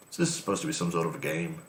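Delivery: quick, bad American accent; a poor attempt at an American accent. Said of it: "That's probably my worst American accent".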